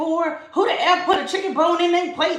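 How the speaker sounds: ranting, cursing tirade. Retelling a woman who cussed the speaker out over a chicken bone: imitating someone cussing out. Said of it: "she just started cussing me out".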